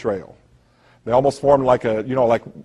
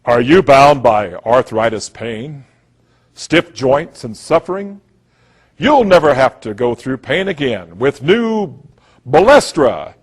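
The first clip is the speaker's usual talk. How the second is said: lightly voiced drug-ad pitchman; mock a TV commercial voice-over; a hint of hammy ad announcer; slower than usual. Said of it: "you hear this guy go".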